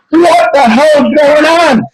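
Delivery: high, slow, stretched-out confusion; mock bewilderment. Elderly men reacting to the ambush, mock bewilderment. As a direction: drag it out in baffled, imitated alarm.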